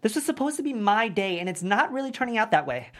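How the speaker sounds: frustrated rant. Acted. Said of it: "I'm frustrated".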